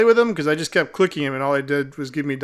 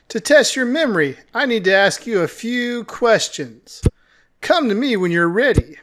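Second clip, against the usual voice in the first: lightly voiced cat character, smugly testing; condescending talking cat; 5 semitones higher, 3 dB louder than usual. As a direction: lightly play a patronizing cat guide.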